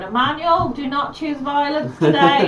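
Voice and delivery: mock pleading scolding. Woman telling off Emmanuel on video, mock scolding. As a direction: mildly chide a naughty animal. Voices an owner scolding an emu.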